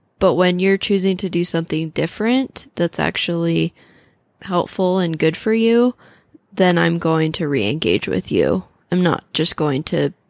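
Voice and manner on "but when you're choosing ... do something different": ordinary delivery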